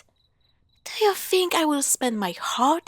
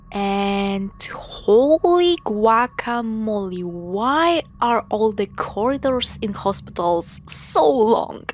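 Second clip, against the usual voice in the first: slow, drawn-out mock amazement, louder at the end; sarcastic; 3 dB louder, slower than usual. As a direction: ham up the fake outrage. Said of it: "That was sarcasm".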